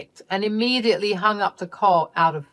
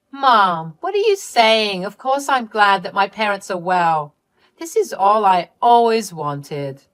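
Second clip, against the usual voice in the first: protesting Candy; 3 semitones higher, 6 dB louder than usual. Acted. Daughter insisting she's glad her parents are well, mild protest. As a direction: protest innocence with a touch of hurt.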